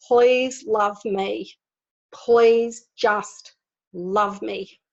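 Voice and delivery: slow, drawn-out imitated plea; retold pleading cry. Speaker voices a child's hidden call for love, slow mock plea. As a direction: stretch each word of the imagined plea, without screaming. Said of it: "if you could see her screaming out".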